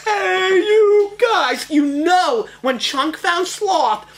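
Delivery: put-on high, loud, excited kid shout; Goonies Chunk. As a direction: yell it like Chunk calling friends.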